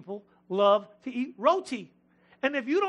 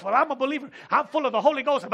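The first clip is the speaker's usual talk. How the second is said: mock pious believer; 3 semitones higher, 5 dB louder, faster than usual. Mocking pushy believer.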